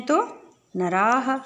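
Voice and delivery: drawn-out नराः with breathy final aa; slow model answer. Shown as a demonstration. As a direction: stretch नराः slowly for the class. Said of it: "तीन हैं".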